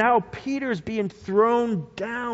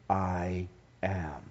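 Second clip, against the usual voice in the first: hushed; 13 semitones lower, 11 dB quieter than usual. Acted. Solemn divine name revealed.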